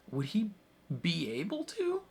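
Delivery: breathy whispered wondering; whispered question. Real, not acted. Reviewer wonders aloud about Alex running for president, whispered.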